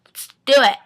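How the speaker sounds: breathy whispered invite; mock whisper. Elena urging Rick to hike, mock whisper. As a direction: whisper the offer conspiratorially. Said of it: "Elena goes up to Rick".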